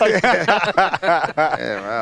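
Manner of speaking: talking with a mouth full of food. Real, not acted. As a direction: say it through a mouthful. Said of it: "Don't talk with your mouth full".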